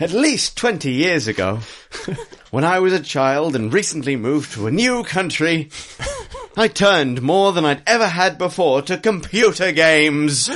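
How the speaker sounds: chipper upbeat. Acted. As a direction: read it like it's the best news ever. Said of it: "A really chipper, upbeat grudge".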